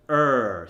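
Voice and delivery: hard, held American r in "er". Shown as a demonstration. Coach showing the American ER sound, strongly pronounced. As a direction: hit "er" with a strong r-coloured vowel. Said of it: "In the American accent".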